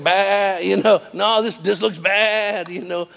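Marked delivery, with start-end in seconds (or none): 0.0-0.6 sheep bleat. Retold or imitated. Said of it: "The sheep are like". 1.1-2.7 slow, high sheep voice; worried sheep. Retold or imitated. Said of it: "The sheep are like".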